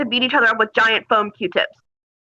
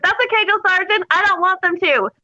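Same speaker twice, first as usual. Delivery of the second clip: bright, higher, sweetly sarcastic reply; mock-sunny comeback with a big smile; sunny sarcasm; 7 semitones higher, slower than usual. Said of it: "I'm like".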